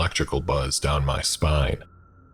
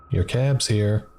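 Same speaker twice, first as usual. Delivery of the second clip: higher, chatty diner waitress voice; friendly waitress; 6 semitones higher, slower than usual. Acted. Diner waitress to shaken customer, higher and chatty. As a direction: play the waitress offering free refills.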